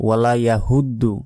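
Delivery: ওয়ালা ইয়াহুদ্দু with a plain h and d; wrong way. Shown as a demonstration. Teacher imitates a common mispronunciation. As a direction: mimic the mistaken ইয়াহুদ্দু. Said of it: "আমরা অনেকে এখানেও ভুল বলি".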